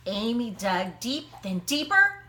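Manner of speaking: ordinary delivery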